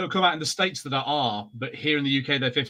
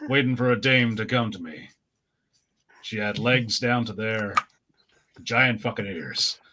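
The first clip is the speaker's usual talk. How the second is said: noir detective; 4 semitones lower than usual. Acted. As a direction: brood like a forties private eye. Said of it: "the noir gremlin".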